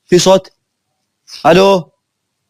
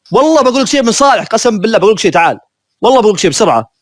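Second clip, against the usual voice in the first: high, pleading call, fast; urgent pleading; 5 semitones higher than usual. Real, not acted. Gamer begging a teammate to come, urgent high plea. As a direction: beg him to come over right now.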